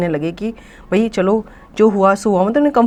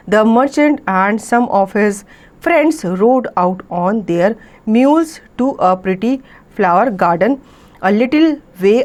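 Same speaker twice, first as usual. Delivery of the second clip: very slow, careful read-aloud of an English story; much slower than usual. A narrator's reading. Teacher reading the story to students, very slow and clear. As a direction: read each phrase slowly so the class can follow.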